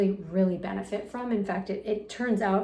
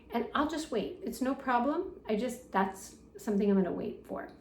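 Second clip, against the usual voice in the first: gentle boundary; 3 dB quieter than usual. Shown as a demonstration. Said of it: "and say".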